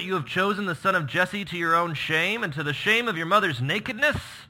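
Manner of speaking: loud, high furious king; a father's fury at his son; Saul raging. Acted. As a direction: hurl the words at the son. Saul's angry outburst read.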